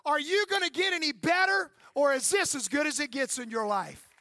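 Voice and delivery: a hint of a manager barking at an umpire; lightly voiced fiery baseball manager confronting the ump; best Earl Weaver voice. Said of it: "in my best Earl Weaver voice".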